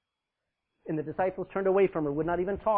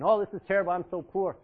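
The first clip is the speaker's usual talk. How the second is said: mock complaining; 6 dB louder than usual. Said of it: "complaining and thinking".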